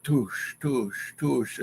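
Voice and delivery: splash imitation. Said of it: "this dude was clearing water".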